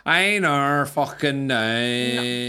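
drawn-out mock rural Irish accent; mimicked guest accent. Shown as a demonstration. Host attempting guest's accent, exaggerated slow vowels. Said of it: "I can do your accent".

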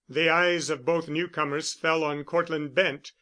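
plain reading voice

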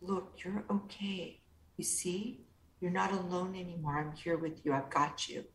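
put-on comforting inner child. Therapist comforting her lonely inner child, soft and gentle. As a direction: hold the child close with your voice.

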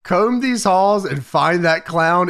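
a light Hulk Hogan growl. Retold or imitated. Host quotes Hogan's order in his voice. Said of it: "In Hogan voice".

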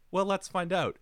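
high, loud, gleeful challenge; playful mock-cheerful mother; mischievous mom. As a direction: tease the kid before smashing it.

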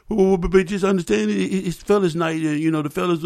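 nervous stuttering plea. Retold or imitated. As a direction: stammer out the excuse. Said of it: "he stuttered".

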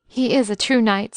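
"He is a true knight" said with firm emphasis; "He is a true knight" as an emphatic, mildly stressed assertion. A narrator's reading. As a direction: insist firmly on "He is a true knight". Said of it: "said Charlotte emphatically".

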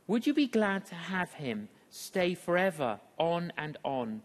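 measured, reflective reading of a poem; poem recitation. Acted. Preacher reciting a poem to the congregation, reflective.

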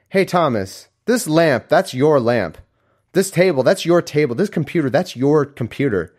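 high, eager pointing-out voice; pointless visitor. Acted. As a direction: announce the obvious as if it were news. Acts visitor pointing out obvious.

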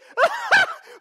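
high hammed-up laugh; high delighted mock laugh; amused laugh. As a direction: laugh at something tiny and cute. Preacher acts amused laugh.

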